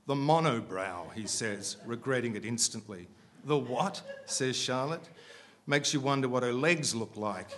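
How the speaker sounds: measured, projected reading aloud; story narration. A narrator's reading. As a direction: read the prose out deliberately to a room.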